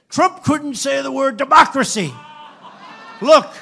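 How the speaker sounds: high, loud, laughing mock shout; mocking the press. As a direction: ham up a gleeful reporter. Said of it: "and they say".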